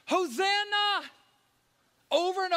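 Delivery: high, loud ringing cry; crowd shout. Retold or imitated. Preacher voicing the crowd, shouting high and loud. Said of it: "the crowds shouted".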